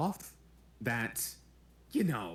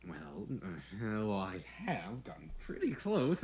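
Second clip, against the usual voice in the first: whispered, embarrassed excuse; sheepish whisper; 3 semitones lower, 5 dB quieter, slower than usual. Acted. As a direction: mumble the excuse under your breath.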